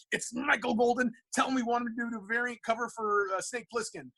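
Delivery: high-pitched, hurried plea; flustered urgency. Retold or imitated. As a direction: replay handing off a call in a fluster. Acts shoving phone at Jan.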